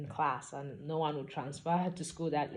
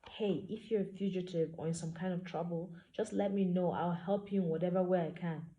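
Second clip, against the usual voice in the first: softened tone; 2 semitones higher than usual. Acted. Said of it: "She softened her tone".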